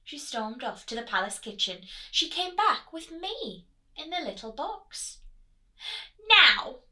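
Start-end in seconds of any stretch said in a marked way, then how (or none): 6.3-6.8 loud, firm royal call to attention; commanding queen. Acted. Queen ordering the prince to listen, loud and commanding. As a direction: demand his attention. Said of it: "said the Queen".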